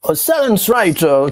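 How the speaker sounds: put-on slow, drawn-out American accent; teasing American accent, amused; mock American accent. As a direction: playfully exaggerate the American accent. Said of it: "Quel accent".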